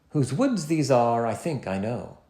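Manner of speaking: whose WOODS these ARE, slow, even iambic beat; slow iambic poem line; iambic reading. Shown as a demonstration. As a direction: read it to show the da-DUM beat. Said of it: "Listen to the difference".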